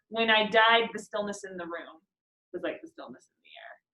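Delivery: When I died begun fresh after a pause; died starts a new phrase. Shown as a demonstration. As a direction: restart the line at When I died. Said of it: "the ways that we're pausing".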